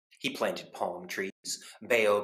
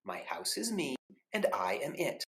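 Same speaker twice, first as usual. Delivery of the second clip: calm reply; 6 semitones higher than usual. Acted. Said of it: "said the man".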